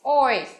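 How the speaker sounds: "voice" reduced to its "oi" sound and final "s"; vowel demonstration. Shown as a demonstration. Teacher isolates D's different sound, modelling "voice" as "oice". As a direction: sound out "voice" without the first consonant. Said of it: "phát âm là".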